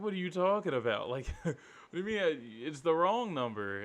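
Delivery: high, fast laughing disbelief; incredulous. Retold or imitated. Incredulous retold reply.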